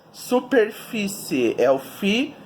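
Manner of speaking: "superfície" slowly, FI brought out; slow sounding-out of "superfície"; stress on FI. Shown as a demonstration. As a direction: lean on the FI in "superfície". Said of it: "descobrir qual é a sílaba tônica".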